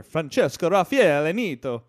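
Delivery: put-on loud, sing-song Swedish chef accent; overdone Swedish accent on an Italian name. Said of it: "you sounded a little Swedish chef there".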